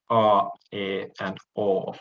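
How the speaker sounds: "a, e, and o" as pure long vowels, silent iota; long vowels demonstrated. Shown as a demonstration. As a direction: sound out "a, e, and o" with no i-glide. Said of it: "long diphthongs are actually pronounced".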